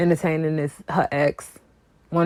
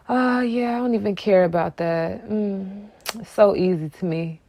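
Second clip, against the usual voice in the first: mock flexing; 3 semitones higher than usual. Imitating the woman flexing on her rival, mock nonchalant. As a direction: act like you don't care at all. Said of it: "She just trying to flex".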